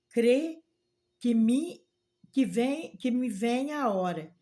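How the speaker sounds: loud, ringing proclamation; proclaiming. Retold or imitated. Jesus tells the woman the hour comes, loud proclamation. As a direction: announce it to the whole church.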